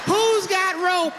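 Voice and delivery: mock-outraged bellow; hammed-up disbelief, slowed; slow, drawn-out disbelieving yell. Repeated bigger.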